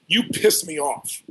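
drawn out, deadpan and blunt; a flat, slow jab from the rich man; slow blunt accusation. Retold or imitated. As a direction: lay the accusation down slowly, no heat. Rich man confronts him on jet.

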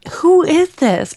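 high, loud, drawn-out disbelief; acted bafflement. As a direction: demand it in mock bewilderment. Retells bafflement at a spelling.

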